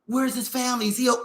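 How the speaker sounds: mock impressed white mom. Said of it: "let that nigga come".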